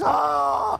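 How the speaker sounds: a short playful cry of Ah, like screaming inside; mock inner scream. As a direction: let out a half-joking yell. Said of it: "I was screaming".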